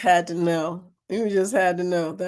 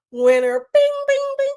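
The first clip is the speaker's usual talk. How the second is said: much higher chiming imitation; slot machine sound; 4 dB louder than usual. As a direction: ring it like a jackpot machine. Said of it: "it'll start flashing winner".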